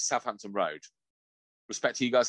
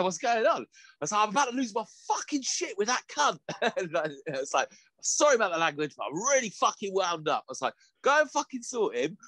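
high, whiny mock-upset voice; mock whiny complaint; 9 semitones higher than usual. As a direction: play it like a child running to the boss. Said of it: "And I went and cried to the boss".

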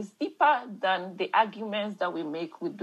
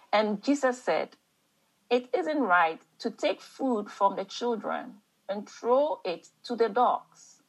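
emphatic African mom accent with long pauses; 4 semitones higher than usual. Shown as a demonstration. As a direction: read scripture like an African mom, stretching the key phrases. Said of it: "African mom accent".

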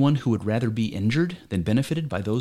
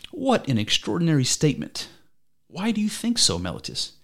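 a higher, incredulous Socrates; mock astonishment; 6 semitones higher than usual. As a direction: pitch jumps higher in feigned disbelief. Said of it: "Socrates says".

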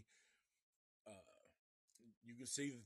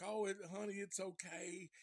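higher, coaxing mother voice; mock motherly soothing; 6 semitones higher than usual. Bubba's mama reassuring him, soothing imitation. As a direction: imitate a mother comforting her son.

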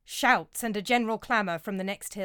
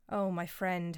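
a touch of a sigh, understated grief; soft sigh over a dead friend; 3 dB quieter, slower than usual. Acted. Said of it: "Herod sighs".

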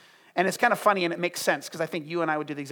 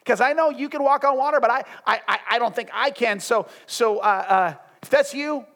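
nervous stammering; 4 semitones higher, 3 dB louder than usual. Acted. Acts out Peter hesitating before Jesus.

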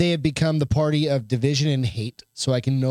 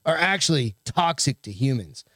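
dry sarcastic read-aloud; lightly sarcastic article read. Real, not acted. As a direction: read the report out with mocking disbelief. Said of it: "reading this in a real sarcastic fucking voice".

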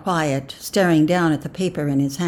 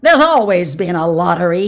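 put-on loud, petulant old man; 8 dB louder than usual. A narrator's reading. Old man defends the lottery, petulant. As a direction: grumble it petulantly. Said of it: "he added petulantly".

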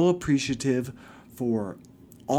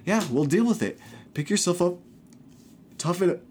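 higher, dismissive mom voice; mocking mom; 6 semitones higher than usual. Son mimics his mother telling him to toughen up, higher mock voice. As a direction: toss it off like a brisk mother. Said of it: "she's just like".

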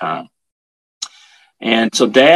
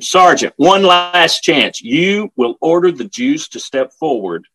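high, loud, drawn-out ultimatum; screaming major giving a last order; retold scream; 9 semitones higher, 4 dB louder, slower than usual. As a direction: raise the voice sharply, stretching each threat. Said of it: "he screamed at him".

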